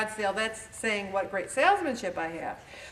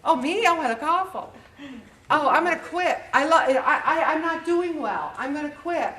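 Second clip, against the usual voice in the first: higher, whiny and halting; mock self-pity; 4 semitones higher than usual. Dieter mocking her own excuses, whiny self-pity. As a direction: wail about your weight with a laugh. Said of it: "you say it about yourself".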